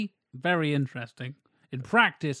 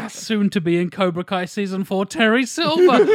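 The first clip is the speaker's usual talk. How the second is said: hyped announcement; 4 semitones higher, 7 dB louder than usual. Real, not acted. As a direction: announce it like a trailer reveal. Hyping the villain's return.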